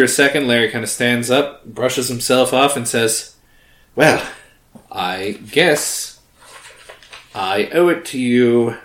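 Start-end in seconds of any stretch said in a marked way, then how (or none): 4.0-8.8 put-on Larry's slipped-in new accent, slow; a drifting put-on accent for the dwarf; odd accent. To the party, Larry in a half-formed accent. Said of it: "why do I talk like this now".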